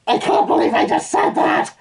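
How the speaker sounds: high, loud cry of disbelief; appalled outburst. Acted. Reader appalled at what he just read out, crying out. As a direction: cry out in mock horror at yourself. Appalled at his own words.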